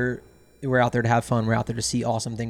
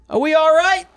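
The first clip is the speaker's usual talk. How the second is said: pushy New Yorker, pitched up high; Brooklyn accent imitation; 8 dB louder than usual. Drunk client asking the captain, Brooklyn accent. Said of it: "what that accent was".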